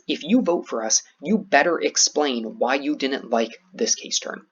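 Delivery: slow, deliberate challenge. Acted. Team challenging the judge's decision, slow and emphatic. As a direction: throw down a challenge, weighting each word slowly. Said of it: "it's a challenge".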